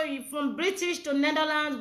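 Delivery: usual speaking voice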